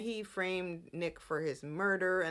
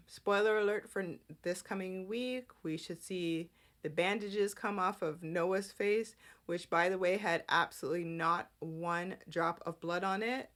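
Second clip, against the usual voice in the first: normal talking voice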